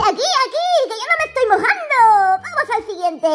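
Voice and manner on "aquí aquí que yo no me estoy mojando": put-on girl's voice. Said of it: "La niña dice".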